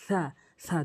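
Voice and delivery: সা with the tongue tip touching the front teeth; সা repeated for copying; Arabic tha. Shown as a demonstration. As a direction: model সা as a th sound. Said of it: "এভাবে normally উচ্চারণ করবেন".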